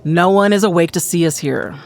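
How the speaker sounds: measured, lightly theatrical reading; self-assured conspirator, reassuring. Acted. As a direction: explain calmly why it is safe. Plays character in dramatic reading.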